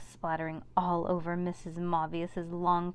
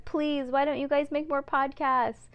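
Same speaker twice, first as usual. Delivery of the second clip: put-on reading review in kid voice; 7 semitones higher, 4 dB louder than usual. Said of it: "And it says".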